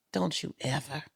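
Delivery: pissed. Retold or imitated. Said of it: "like, pissed".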